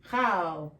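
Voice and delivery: CHAL with a flat 'a' as in bat; flat vowel. Shown as a demonstration. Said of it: "more flat".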